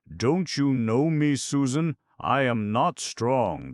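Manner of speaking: high, loud, slow plea; weak pleading stranger. Acted. Sick soldier pleading at the door, high slow appeal. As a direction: beg her to recognise you, slowly. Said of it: "the stranger protested".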